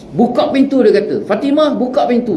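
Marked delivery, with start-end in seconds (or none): 0.1-0.8 a raised, higher demand to open the door; gruff command. Acted. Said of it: "bila dia sekar macam tu". 1.2-2.4 mock angry shout. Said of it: "bila dia sekar macam tu".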